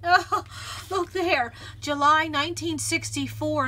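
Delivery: high, loud, stretched-out oh of delight; thrilled to spot the right paper; delighted find. Real, not acted. Finding the perfect journal paper.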